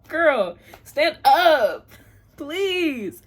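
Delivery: loud high call; excited exclaim. Real, not acted. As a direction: call out with glee. Exclamation to self.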